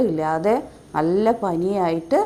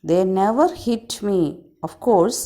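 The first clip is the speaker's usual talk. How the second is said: loud swallow telling; 4 dB louder than usual. Acted. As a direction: stress the rude boys loudly as the swallow. Swallow story reread.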